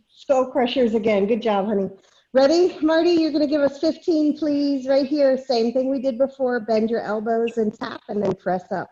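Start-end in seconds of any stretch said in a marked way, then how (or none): 2.3-5.4 upbeat call. Real, not acted. Instructor cheering on volunteer.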